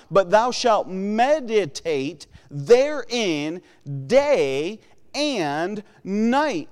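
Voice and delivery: slow, solemn reading of the King James verse; measured pulpit recitation of scripture. Acted. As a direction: read it out like holy writ, slowing at the end. Reads scripture verse aloud.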